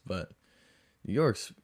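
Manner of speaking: usual speaking voice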